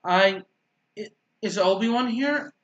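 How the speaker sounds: tripping over the first word; stammering start, then high question; stuttering. Real, not acted. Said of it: "why I stuttered a ton".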